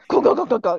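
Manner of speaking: quick repeated clatter noise; knocking sound effect; imitated rattling bones. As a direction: make the sound of bones tumbling. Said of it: "You just hear".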